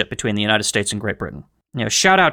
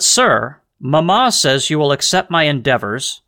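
reading a letter aloud. Retold or imitated.

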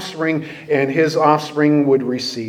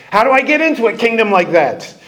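fast, laughing, higher and a bit louder; laughing question; 6 semitones higher, 4 dB louder, faster than usual. Pretend. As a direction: ask it through a laugh, eager. Imagined listener asks eagerly.

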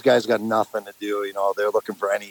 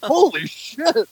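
stunned whisper-ish; much slower than usual. Retold or imitated. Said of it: "I'm like".

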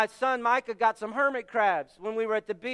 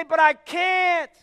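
mock protest; 3 semitones higher, 5 dB louder than usual. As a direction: protest like a stubborn congregant. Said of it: "And you say".

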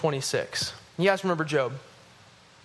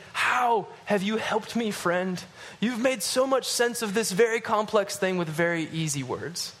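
slow, mocking sarcastic question to a friend; condescending; 3 semitones higher than usual. Job mocking his friend's easy answers, slow condescending tone. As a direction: needle the friend with fake gratitude, slowly. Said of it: "that's how I would say it".

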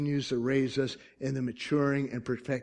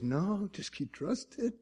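quiet trusting; 5 semitones higher, 7 dB quieter than usual. Acted. Voicing faith speaking back to him.

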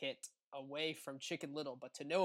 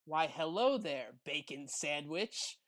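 fake sweet; slower than usual. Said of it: "in a fake sweet voice".

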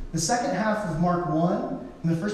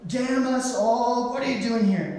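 hammed-up demon, raised pitch throughout; demon's challenge; 5 semitones higher than usual. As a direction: taunt Jesus as a cornered demon. Demon speaking through a man.

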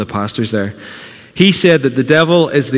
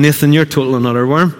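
fast, higher jeering voice of the enemy; the accuser sneering, fast and raised; mock enemy taunt; 4 semitones higher, faster than usual. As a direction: taunt him quickly, pitched up. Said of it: "The enemy's coming along going".

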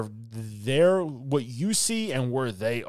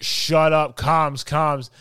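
loud, raised in-game holler; demonstrated shout; 5 semitones higher, 9 dB louder, much slower than usual. Acted. Player silencing teammates to hear footsteps, shouting. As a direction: call it urgently to noisy teammates. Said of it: "if I'm shouting".

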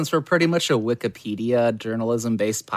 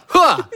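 sharp high grunt like a serve; tennis grunt; 9 semitones higher, 7 dB louder than usual. Pretend. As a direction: grunt as if hitting the ball. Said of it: "I'm in a tennis match right now".

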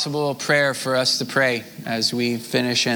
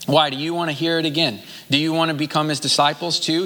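quick, higher-pitched mild sarcasm; lightly mocking questions, delivered briskly; sarcastic; 4 semitones higher, faster than usual. Healed man answering the Pharisees who question him, sarcastic. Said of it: "He's saying that sarcastically".

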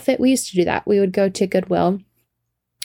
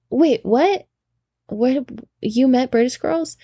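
higher-pitched surprised double take; mild disbelief; 4 semitones higher than usual. Retold or imitated. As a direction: react as if you can't quite believe it. Acted disbelief at friend's claim.

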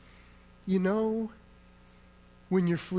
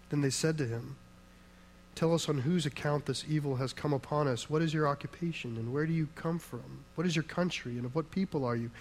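measured, lowered scripture reading. Acted. Pastor reads Jonah to the church, measured and lowered. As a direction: read the passage steadily to the congregation.

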